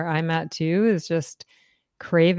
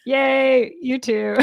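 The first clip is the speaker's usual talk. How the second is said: excited cheer; 7 semitones higher, 3 dB louder, slower than usual. Real, not acted. Celebrating show anniversary.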